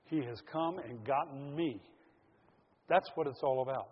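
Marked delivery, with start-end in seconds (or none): 0.0-1.8 quiet heartfelt prayer. Shown as a demonstration. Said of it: "put your hand on your heart and say".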